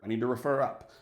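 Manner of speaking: a bad, light British accent; clumsy mock-British officer; lame British accent. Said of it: "This is my lame British accent".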